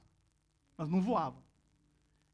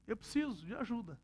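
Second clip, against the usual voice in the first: parrot asking for help; 2 semitones lower, 14 dB quieter than usual. Retold or imitated. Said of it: "Tipo assim".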